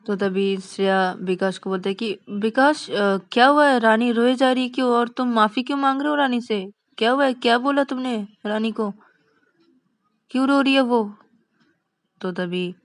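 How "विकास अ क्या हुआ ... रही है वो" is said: raised, urgent demand for answers; agitated questioning. Acted. Shreya asks Vikas why Rani is crying, agitated questioning. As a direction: press him with worried, higher-pitched questions.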